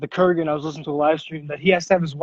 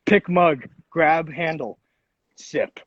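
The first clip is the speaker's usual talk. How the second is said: stiff robot voice, word by word; 2 semitones lower, much slower than usual. Retold or imitated. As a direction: talk like a machine, clipped steps. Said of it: "I sound like a fucking robot".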